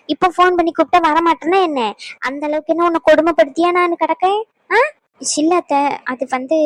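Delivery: a lightly voiced stern mother-in-law, nagging; scolding mother-in-law. Mother-in-law nagging the daughter-in-law who skipped meals, lightly stern. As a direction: scold her like a fussy village mother-in-law.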